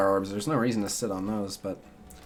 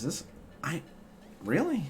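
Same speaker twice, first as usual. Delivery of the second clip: much higher, incredulous "really?"; surprised; 7 semitones higher, 8 dB quieter than usual. Real, not acted. Streamer reacting to a surprise on screen, real surprise. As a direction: caught off guard, questioning.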